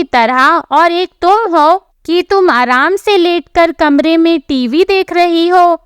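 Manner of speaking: mildly heated telling-off, rising at the end; angry husband. Acted. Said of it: "जिसे देखकर वो बहुत गुस्सा होता है और". (हल्के गुस्से में डांटना)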